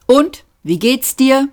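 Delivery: out loud. A narrator's reading. Man asking his robot how it is, out loud. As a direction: speak up after the private aside. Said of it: "sagte er laut".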